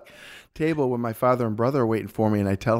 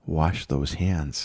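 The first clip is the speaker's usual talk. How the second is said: drawn out, lower and slow, each word weighted; slow emphatic urging; 6 semitones lower, much slower than usual. Real, not acted. Host telling listeners slowly to wash hands. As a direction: press the advice home slowly.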